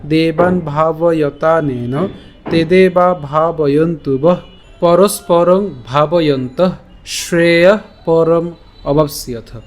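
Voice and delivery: slow, careful recital of the verse; slow recitation. Shown as a demonstration. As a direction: recite the whole shloka slowly. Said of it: "তাহলে আমরা যদি আবার উচ্চারণ করি". (ধীরে শ্লোক আবৃত্তি)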